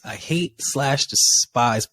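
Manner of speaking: slow, deliberate stress on "hate"; emphasis on HATE. Real, not acted. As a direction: draw out "hate" for utmost emphasis. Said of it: "utmost emphasis on the word hate".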